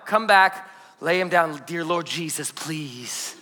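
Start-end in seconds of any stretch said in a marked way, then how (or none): 1.7-3.4 hushed, fading mock prayer; softly beg, dropping lower to near silence; quiet desperate plea, acted out; pleading prayer. Worn-out dad praying baby stays asleep.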